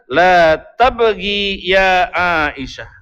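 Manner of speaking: slow, tender plea not to cry; gentle comfort. Acted. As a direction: soothe her slowly and gently. Prophet comforting weeping Aisyah. (membujuk dengan lembut dan pelan)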